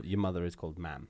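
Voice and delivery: ma'am with a short flat a, like mam; Welsh mam. Shown as a demonstration. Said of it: "Not mum".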